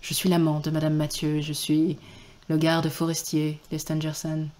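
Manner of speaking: a hint of a languid lover; sexy low voice. Streamer voicing the green man, the lover, seductively. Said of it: "on peut le faire plus grave".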